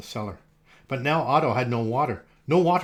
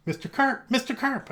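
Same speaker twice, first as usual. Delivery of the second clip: high, worried calling out; yelled; 10 semitones higher than usual. A narrator's reading. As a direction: call into the pool, anxious. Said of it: "I yelled".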